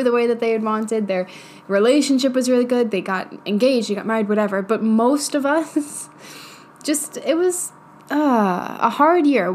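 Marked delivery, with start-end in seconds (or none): 4.6-9.5 choked, strained through a cough; talking while choking on bread. Real, not acted. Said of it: "I was choking on bread".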